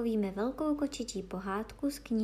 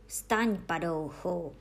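ordinary delivery, nothing marked

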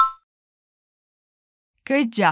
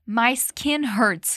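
My skin hurts said very slowly for learners; slow model line; much slower than usual. Shown as a demonstration. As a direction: spell it out slowly, word by word. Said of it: "O Will disse".

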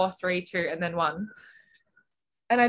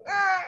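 high-pitched "ah" of dismay; mock dismayed cry; 13 semitones higher than usual. Swimmer retelling a bad split, high dismayed cry. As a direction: let out a short, high mock wail.

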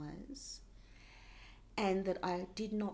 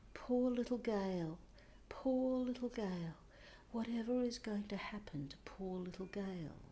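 retold grandmother's lament; 2 semitones higher, 4 dB quieter than usual.

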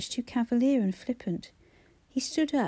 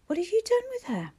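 shouted demand; 6 semitones higher, 4 dB louder than usual. Acted. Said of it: "he wanted to shout".

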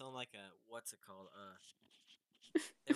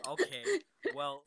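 coughing through words; choking; 11 dB louder than usual. Real, not acted. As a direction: sputter after choking. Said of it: "making me choke on my ice cream".

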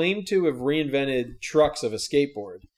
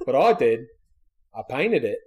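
lightly voiced Australian inventor; mock Australian. Inventor explaining his reinvented skate truck, mock Australian accent. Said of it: "Apparently Shark Tank Australia".

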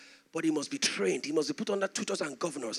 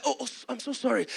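stammered, mildly frightened apology; fearful apology; 4 semitones higher than usual. Retold or imitated. A son apologizing to his manipulator, mildly afraid. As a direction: stumble over a scared apology. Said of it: "I was afraid".

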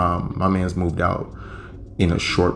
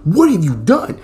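mock loud shout; 10 semitones higher, 6 dB louder than usual. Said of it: "You know, like".

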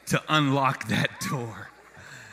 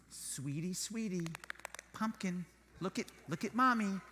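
sweet coaxing; 8 dB quieter than usual. Retold or imitated. Mom coaxing toddler.

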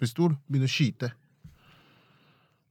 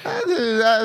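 higher, drawn-out hesitant stalling; mock befuddled umming; thinking hard; 9 semitones higher, much slower than usual. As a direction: imitate fumbling for an answer. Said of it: "måtte tenke litt sånn".

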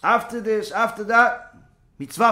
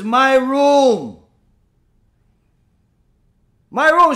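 possessive yelling; 3 semitones higher, 5 dB louder, much slower than usual. Retold or imitated. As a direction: claim the room at full voice. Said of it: "She almost took ownership".

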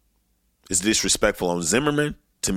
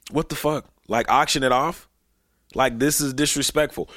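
outraged; 7 semitones higher than usual. Real, not acted. Outraged reaction, pitch up.

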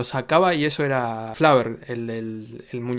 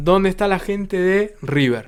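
club announcer; 4 semitones higher, 3 dB louder, slower than usual. Retold or imitated. DJ calling out to crowd.

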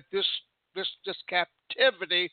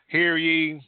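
royal herald; 4 dB louder than usual. Retold or imitated. Herald's call repeated.

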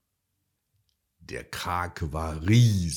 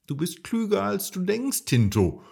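encouraging; 4 dB louder than usual. Acted. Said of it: "Marie ermutigte ihn".

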